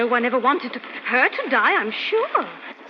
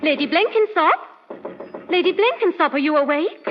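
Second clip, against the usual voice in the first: calling through door; 2 semitones higher than usual. Acted. Maid calls to her mistress through the bolted door, calling. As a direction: raise the voice to wake her.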